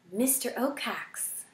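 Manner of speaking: soft, slow whisper. A narrator's reading. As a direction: whisper the dreaded name. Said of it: "she whispered".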